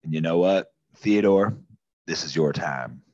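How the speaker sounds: lightly voiced patriotic officer, rousing; grand recruiter speech. A hint of a corporal recruiting Theodore, rousing pitch. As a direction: sell him on heroism like a recruitment ad.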